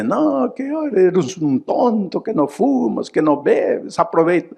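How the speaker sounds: mock like worldly friends; mocking tempters. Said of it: "Ahí pueden decirte".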